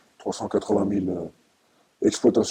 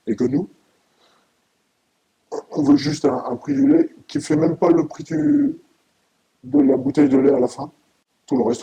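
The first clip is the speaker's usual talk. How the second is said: angry; 4 semitones higher than usual. Real, not acted. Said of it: "très ému, mais aussi très en colère".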